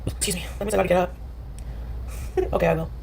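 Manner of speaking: a real whispered aside to herself. Real, not acted. Streamer to herself before getting up, whispered. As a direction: breathe it off mic, barely voiced.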